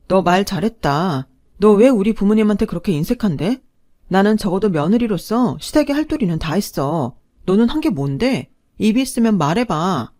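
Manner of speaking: loud, taunting challenge; sharp counterattack. Acted. Wife angrily challenging husband to speak. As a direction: dare him to answer.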